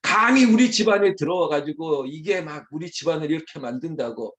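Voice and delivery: loud burst of outrage; hammed-up scornful tirade; indignant in-law. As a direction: erupt at the intruder in the family. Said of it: "지금 이런 뉘앙스예요".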